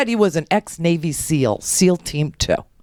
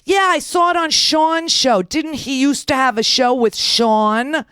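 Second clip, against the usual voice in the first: higher-pitched voice of a chatty fan; nosy nurse; 4 semitones higher, slower than usual. Retold or imitated. Nurse quizzing patient about Sean's show, nosy. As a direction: lightly imitate a prying woman, pitched up.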